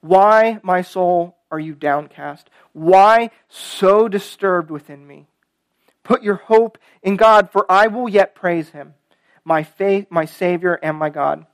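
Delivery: deliberate psalm refrain, easing at the end; measured pulpit reading; scripture reading. Acted. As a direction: read the refrain with weight, key words stretched. Reads the psalm aloud.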